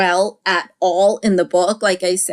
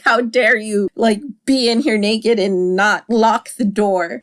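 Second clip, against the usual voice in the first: hammed-up indignant scolding, a bit louder; over-the-top outrage; 3 semitones higher, 4 dB louder than usual. Husband scolding his wife over the unlocked door, hammed-up outrage. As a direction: play it big, a mock husband's outrage. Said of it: "it's, like, really over the top".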